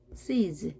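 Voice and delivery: "Sees" ending in a buzzed z; voiced z ending. Shown as a demonstration. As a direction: finish "Sees" on a vibrating z. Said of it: "z 발음합니다". ("Sees" 끝을 떨리는 즈로)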